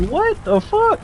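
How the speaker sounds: high, rising shocked outburst; retold startled what the fuck; shocked disbelief. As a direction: blurt it out in total disbelief. Shocked reaction to cop.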